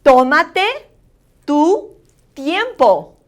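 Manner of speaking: careful model "Tómate, tu tiempo", O elevated; accent on the O. Shown as a demonstration. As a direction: stress the first syllable of "Tómate" for learners. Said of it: "watch out for that accent over the O".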